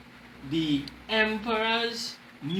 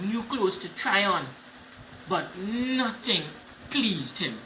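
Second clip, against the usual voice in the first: story reading. Acted. Reads storybook to class.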